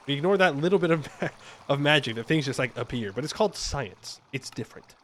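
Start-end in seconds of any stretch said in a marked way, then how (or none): 4.3-4.9 whispered aside. Acted. Gamer whispering a secret to viewers, hushed. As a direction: whisper it conspiratorially.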